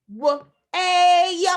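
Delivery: W, A sounded out with a stray "yuh" tagged on the end; drawn-out demo. Shown as a demonstration. Teacher tests pupils with a wrong breakdown, drawn-out demo. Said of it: "Am I correct? Is it like this?".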